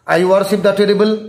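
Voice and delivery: slow, word-by-word reading of "I worship the terrible"; deliberate slow recitation of "I worship the terrible". Shown as a demonstration. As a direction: read "I worship the terrible" slowly, as if from the book. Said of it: "he was continually saying".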